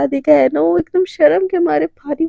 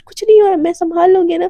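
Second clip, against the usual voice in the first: higher, louder insistence; emphatic reassurance; 4 semitones higher, 6 dB louder than usual. Acted. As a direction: insist loudly that it's fine. Girlfriend reassuring loudly.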